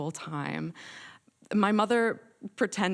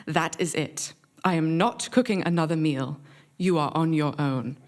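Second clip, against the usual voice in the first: firm, emphatic British English, each sentence a final word; stern British accent. Retold or imitated. Mother refusing to cook another meal for the family, stern British accent. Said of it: "in her stern British accent".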